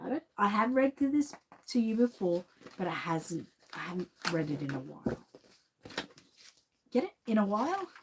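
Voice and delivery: rattly chesty voice; a chesty rasp from a cold; phlegmy voice. Real, not acted. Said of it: "I know I sound really phlegmy".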